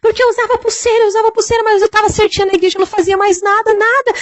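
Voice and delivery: high, desperate wailing scream; shrill anguished cry from the flames; screaming in torment. Retold or imitated. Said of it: "e ela gritou".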